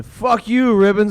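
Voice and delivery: put-on drunk yell. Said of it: "he's just sitting there going".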